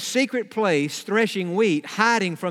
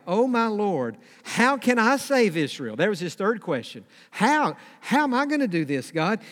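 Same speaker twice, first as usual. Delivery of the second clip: higher-pitched, overwhelmed questioning; bewildered protest; 3 semitones higher than usual. Acted. Gideon asking how he can save Israel, bewildered. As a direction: protest helplessly to God. Voicing Gideon's doubt before God.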